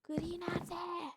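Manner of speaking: slow, puzzled "where is Gray"; drawn-out search. Real, not acted. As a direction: stretch out "nerede" while looking around. Searching for a player in game.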